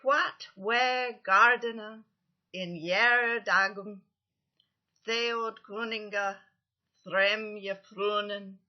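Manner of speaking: slow, loud, each stress hammered; heavy Old English stresses. Shown as a demonstration. Teacher reciting Beowulf aloud with heavy stresses, slow and loud. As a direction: chant it slowly, punching two beats per half-line. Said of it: "with the proper stresses".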